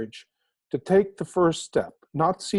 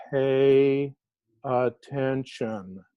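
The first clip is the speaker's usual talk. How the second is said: slow, deliberate; 3 semitones lower, much slower than usual. Retold or imitated. Giving out the parrots' two words.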